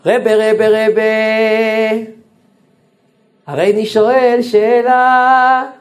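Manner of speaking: high, loud, pleading calls of rebbe; pleading to the rabbi. Retold or imitated. אבא מתחנן לפני הרב שך. (תחינה נרגשת, גבוהה ורמה)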